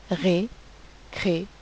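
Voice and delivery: Récréation said slowly, syllable by syllable. Shown as a demonstration. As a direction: stretch out Récréation so each syllable is heard. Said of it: "On entend bien quatre syllabes".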